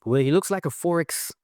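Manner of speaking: a light mock of the DJ's accent; mimicked friend's accent. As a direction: put on a hint of the friend's accent, playful. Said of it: "you know, mimicking his accent".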